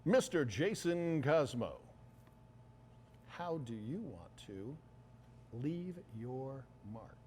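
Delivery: slow, drawn-out broadcast announcer voice; fighting game announcer. Pretend. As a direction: announce the guest like a big fight intro. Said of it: "get in my broadcast, you know, announcer voice".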